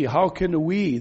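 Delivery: "we" given weight at the end of the question; emphasis on we. Shown as a demonstration. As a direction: lean into the word "we". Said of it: "Paul puts great emphasis on this word".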